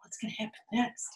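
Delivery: fast whispered what's next; suspense whisper. Acted. Teasing a child about the next page, whispered.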